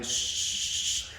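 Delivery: hissed static noise; speaker rattling. Retold or imitated. Imitating the drive-thru speaker rattling, a hissed static noise. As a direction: make the crackle of a blown speaker. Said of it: "the speaker was, like, rattling".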